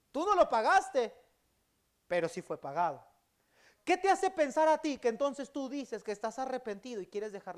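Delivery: loud, high preaching at full force; fiery preaching. Acted. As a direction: drive the point home to the congregation. (predicando a todo pulmón, fuerte y agudo)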